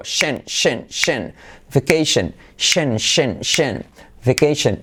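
clipped "shen", then "Vacation" ending the same; repeat-after-me drill. Shown as a demonstration. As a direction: drill "shen" in even beats before "Vacation". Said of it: "Repite conmigo".

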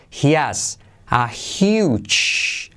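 slow "He has" linked, no H in has; H dropped in has. Shown as a demonstration. Teacher shows learners the skipped H, slowly linked. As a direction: draw out huge, link he-as. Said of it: "Esa H de he has se salta".

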